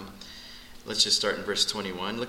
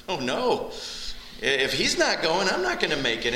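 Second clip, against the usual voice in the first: mock panic; 6 semitones higher, 3 dB louder than usual. Imagined panic at judgment.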